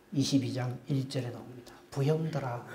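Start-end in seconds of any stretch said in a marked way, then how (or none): 1.9-2.6 tender address. Acted. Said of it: "이런 말을 합니다".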